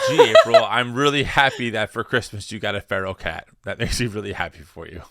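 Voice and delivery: understated mock sincerity; sarcastic. Real, not acted. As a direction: congratulate with a touch of dry irony. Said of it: "I sense the sarcasm".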